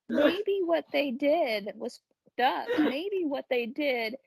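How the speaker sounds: slow, deliberate inner thought; slow mock reasoning. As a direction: spell it out slowly like a thought. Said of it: "and think".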